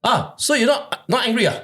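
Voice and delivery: high-pitched, hesitant caller; caller backing down. Retold or imitated. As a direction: mimic a wary caller checking for offence. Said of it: "then he said".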